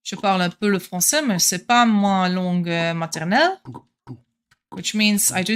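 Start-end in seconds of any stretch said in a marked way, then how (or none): 0.1-3.6 quick French phrase, casual; speaking French. Shown as a demonstration. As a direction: rattle off some French.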